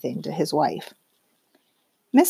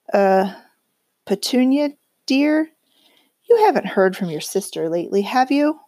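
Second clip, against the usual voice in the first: nervous; 3 semitones higher than usual. Acted. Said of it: "cleared his throat nervously".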